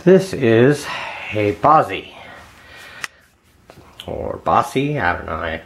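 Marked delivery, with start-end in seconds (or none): 1.5-2.1 "Bozzy" with an open ah and buzzing z; guessed pronunciation. Shown as a demonstration. Lockpicker trying a brand name for viewers, guessed pronunciation. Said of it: "don't know how you pronounce it". 4.4-5.0 "Bossy" with a hissed s in the middle; alternative pronunciation. Shown as a demonstration. Lockpicker offering viewers another brand reading, unsure pronunciation. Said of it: "don't know how you pronounce it".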